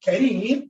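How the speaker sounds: Kareem with a quick, soft tapped R; soft Arabic R. Shown as a demonstration. Teacher explaining the kasra, soft R in Kareem. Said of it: "that is pronounced soft".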